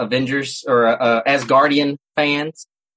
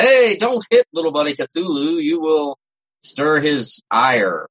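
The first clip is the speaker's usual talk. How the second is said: lightly hammed-up doom voice, slowing right down on stir his ire; a hint of a solemn prophet, half joking; mock ominous warning; slower than usual. Friends warn a drunk guy, jokingly, in a mock ominous voice. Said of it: "We were trying to be funny about it".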